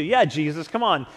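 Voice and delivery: loud, jeering taunt; dying criminal jeering at Jesus, mocking. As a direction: sneer at Jesus from the cross. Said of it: "he starts mocking him too".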